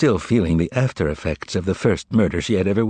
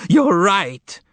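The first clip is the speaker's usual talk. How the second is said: much higher, louder excited cry; shouted; 10 semitones higher, 4 dB louder, much slower than usual. Acted. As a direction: burst out in eager agreement. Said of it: "shouted Korovyov".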